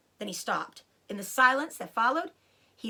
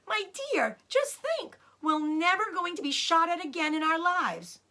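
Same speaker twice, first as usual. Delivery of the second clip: Rabbit; 8 semitones higher than usual. Acted. Rabbit voiced high.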